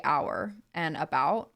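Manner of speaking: "our" and "about" with open American vowels; American accent. Shown as a demonstration. Contrasting American with Canadian, American accent on "our and about". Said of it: "an American accent would say".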